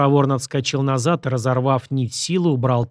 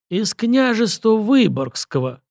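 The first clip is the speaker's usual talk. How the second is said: teeth-chattering corpse; 8 semitones higher, slower than usual. A narrator's reading. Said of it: "лязгая зубами".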